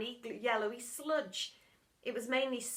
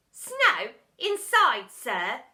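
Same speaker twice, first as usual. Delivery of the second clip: put-on puzzled boy; 12 dB louder, much slower than usual. A narrator's reading. Boy puzzled by the teacher, surprised. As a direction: sound baffled and curious.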